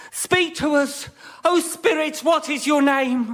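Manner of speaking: grand, drawn-out call to the spirit; hammed-up medium. Medium asking the ghost its name, mock grand. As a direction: summon the ghost theatrically.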